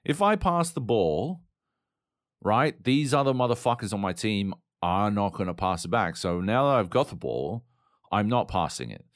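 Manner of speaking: lightly voiced greedy teammate justifying keeping the ball; mock selfish teammate. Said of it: "they're just like".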